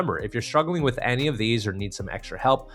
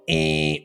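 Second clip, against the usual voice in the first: buzzer sound; 5 semitones higher than usual. Shown as a demonstration. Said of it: "wrong answer on a game show".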